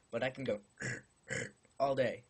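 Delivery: burped throat noise; burping the words. Shown as a demonstration. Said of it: "It's coming from up here".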